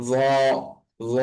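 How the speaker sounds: ল as a soft, rounded "dhaw"; gentle th-like sound, held, for ল; soft articulation. Shown as a demonstration. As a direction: let the tongue rest lightly for ল as "dhaw". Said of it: "নরম করে উচ্চারণ হবে".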